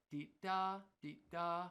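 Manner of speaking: short "dee", long held "da"; trumpet phrasing. Shown as a demonstration. Showing how a trumpet player plays it, long-short phrasing. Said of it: "if I'm a trumpet player".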